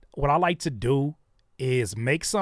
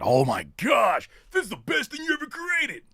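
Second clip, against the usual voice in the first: much higher gushing mock fan; 11 semitones higher than usual. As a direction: gush over nothing. Mimicking overhyped fans.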